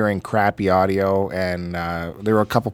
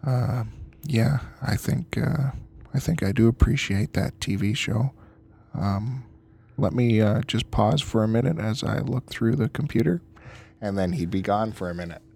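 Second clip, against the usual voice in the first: golf announcer voice; 4 dB quieter than usual. Retold or imitated. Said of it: "The golf announcer voice?".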